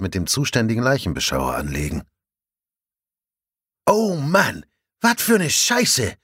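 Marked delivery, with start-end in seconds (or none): 3.9-6.2 much higher, slow, rough Plattdeutsch bellow; bellowing colleague. A narrator's reading. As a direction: yell it across the scene. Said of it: "brüllt plötzlich Rinders". (gebrüllt, norddeutsch derb)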